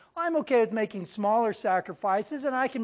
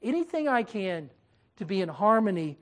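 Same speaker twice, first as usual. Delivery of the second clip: lightly voiced humble uncle; humble pleading; 3 semitones lower than usual. Humbled Abraham pleads with Lot.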